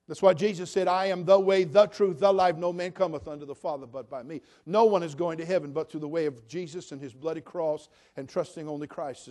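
loud, ringing sermon voice; preaching. Real, not acted. Preacher quoting Jesus to the church, loud and ringing. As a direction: proclaim it to the church.

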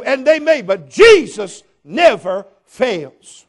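loud, rising pulpit preaching; preaching at full force. Acted. Preacher to the congregation, loud and fervent. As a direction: hammer it home to the congregation.

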